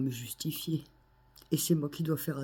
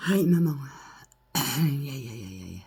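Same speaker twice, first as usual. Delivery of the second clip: crying out in pain; 4 dB louder than usual. Real, not acted. Lament after accusations.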